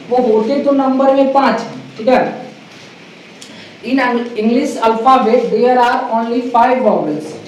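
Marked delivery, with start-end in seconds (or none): 3.8-7.5 very slow, deliberate teaching voice; slow classroom English. Acted. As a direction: spell it out for beginners. (धीमी, सधी हुई शिक्षक वाली अंग्रेज़ी)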